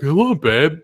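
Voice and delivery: lightly voiced college-guy come-on; hint of a frat-boy voice.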